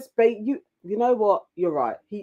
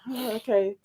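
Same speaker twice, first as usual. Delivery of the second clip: gormless; 2 semitones higher, 7 dB quieter than usual. Retold or imitated.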